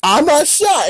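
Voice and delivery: high-pitched cartoon protest; put-on high cartoon voice; cartoon dog. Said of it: "And the dog's like".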